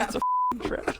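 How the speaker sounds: high shrieking alarm; panicked screaming. Retold or imitated. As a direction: scream the warning. Shouted Ackbar quote.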